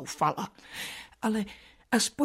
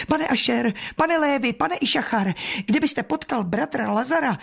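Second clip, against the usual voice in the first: raised calling voice; 6 semitones higher than usual. Retold or imitated. Martha retelling calling neighbours to fetch Lazarus, raised call. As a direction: call to the passers-by. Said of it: "na každého volala".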